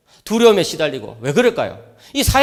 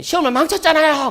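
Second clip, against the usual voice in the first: higher whiny voice of a crying teenager, mock wail; imitating crying son; 9 semitones higher than usual. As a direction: mimic the son sobbing out 시험을 망쳤잖아요. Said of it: "막 엉엉 우는 거예요". (우는 아들 흉내, 높고 징징대는 목소리)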